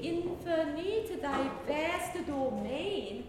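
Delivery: stretched vowels, slow; slow and drawn out. Shown as a demonstration. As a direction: draw each word out slowly. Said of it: "the air vowel for a lot".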